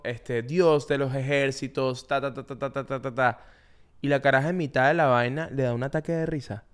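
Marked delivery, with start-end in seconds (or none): 0.4-3.4 slow, soft mock recitation; poem recitation. Actress must recite a very long poem onstage, mock poem recitation. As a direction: recite slowly, trailing into placeholder syllables. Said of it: "tiene que decir un poema larguísimo".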